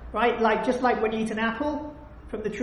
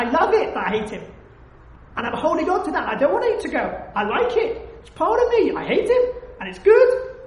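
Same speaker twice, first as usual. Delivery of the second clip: imitated defiant hatred; 2 semitones higher than usual. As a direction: act out clinging to the grudge. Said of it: "The first is".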